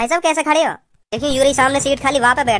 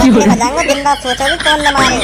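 इतने बजाऊंगा barked much louder; loud threat; 4 dB louder than usual. Acted. Bully repeats his threat to the passenger, much louder.

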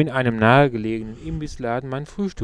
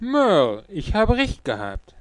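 put-on higher-pitched, confident old friend; Luke; 7 semitones higher than usual. A narrator's reading. Old schoolmate greeting a friend in the diner, higher character voice.

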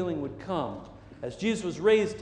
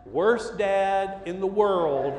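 laughing rue; 5 semitones higher, 7 dB louder, much slower than usual. Real, not acted. Rueful self-mockery.

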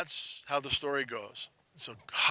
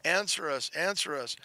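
imitated revival wail, fading with each plea; mock revival cry; 4 semitones higher than usual. Preacher imitates prophets at a revival, crying out, then fading. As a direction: start high on the call, then let it tail off. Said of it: "sounded like just some sort of Pentecostal revival".

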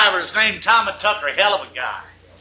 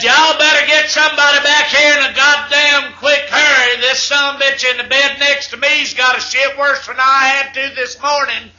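urgent holler; 4 semitones higher than usual. Acted. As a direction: yell for the nurse in a hurry. Driver yells into intercom.

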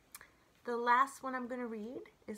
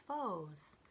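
whisper; 2 semitones lower than usual. Real, not acted. Whispers the word foes.

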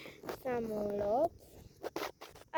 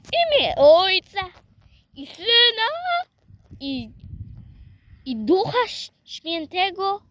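the sign of the cross said again, louder and higher; louder prayer; 5 semitones higher, 3 dB louder than usual. Shown as a demonstration. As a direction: say the prayer again, loud and clear for everyone. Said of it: "To teraz mówię". (głośniej i wyżej, wyraźnie na nowo)

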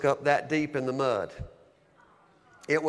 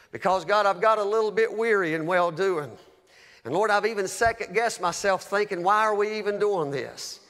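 earnest retold prayer; 5 semitones higher than usual. Tearful prayer in bathroom retold.

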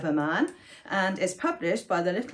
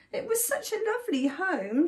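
higher, softened, wistful voice; small, sorrowful dragon voice; sad sniffle; 6 semitones higher, 3 dB quieter than usual. A narrator's reading. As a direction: lament it sadly. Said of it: "she sniffed sadly".

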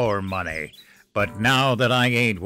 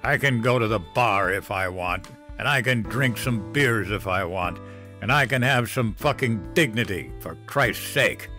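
put-on drunken yelling; 3 semitones higher than usual. Drunk father yelling about his dignity, rising anger. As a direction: yell it at the top of his lungs.

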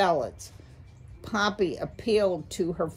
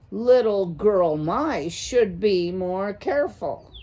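louder, deliberate warning; menacing owl warning; 2 semitones higher, 5 dB louder than usual. Acted. An owl warning a little mouse, heavy menace.

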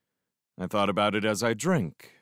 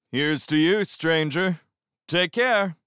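raised, lifted, cheerful toast; cheery; 8 semitones higher, 5 dB louder, slower than usual. A narrator's reading. Lewis toasting the stranger as he leaves, cheerily. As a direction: call out a cheery farewell, high and loud. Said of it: "he said cheerily".

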